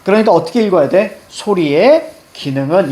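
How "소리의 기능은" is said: 소리의 held at the end, then 기능은 after a break; chunked reading demo. Shown as a demonstration. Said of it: "이렇게 읽어줘야 돼".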